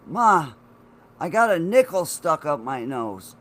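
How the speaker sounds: loudly blurting it out to mom; alarmed, pushing the news out. Retold or imitated. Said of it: "I'm like".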